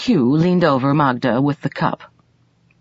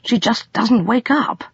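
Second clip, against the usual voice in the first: higher, puzzled and unsure; doubtful; 8 semitones higher than usual. A narrator's reading. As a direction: sound worried that something is off. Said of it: "she said doubtfully".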